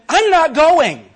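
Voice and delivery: high, loud, slow laughing declaration; laughing refusal. Real, not acted. Laughing refusal of doomed trip.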